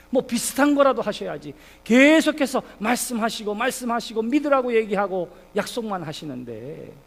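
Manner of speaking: acted reproach toward God; Abraham's exasperated protest; resentful complaint. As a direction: plead and grumble, stretching the key words. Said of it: "하나님을 향해서 원망하는 거예요".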